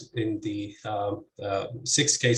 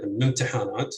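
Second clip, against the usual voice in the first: ممتحنات stressed on its first heavy syllable after the initial one; stress on first heavy non-initial syllable; faster than usual. Shown as a demonstration. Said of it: "clearly on either the, the first heavy syllable".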